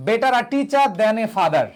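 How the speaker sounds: each word stretched slowly; slow dictation. Shown as a demonstration. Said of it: "যেমন".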